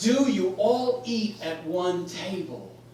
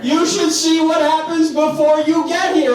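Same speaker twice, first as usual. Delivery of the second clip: much higher, louder laughing call; laughing loud retort; 9 semitones higher, 6 dB louder than usual. Retold or imitated. Mother teasing father about the bent fork, laughing loud. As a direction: fire it back loudly through laughter.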